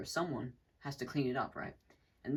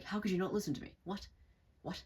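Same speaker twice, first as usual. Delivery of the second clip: higher-pitched, innocent disbelief with joy; 7 semitones higher than usual. Acted. Innocent person protesting at not being heard, joyful. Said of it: "this joy to their voice".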